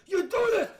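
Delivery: high, loud mock shouting; drunken neighbor screaming. Drunk neighbor yelling at his wife, screaming. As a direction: holler it like a raging drunk husband. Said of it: "but he screamed".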